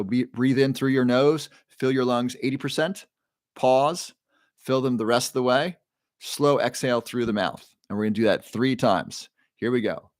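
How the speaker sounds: measured breathing-coach cues with long pauses; guided breathing. Shown as a demonstration. Coach leading viewers through a bedtime breathing exercise, guided breathing.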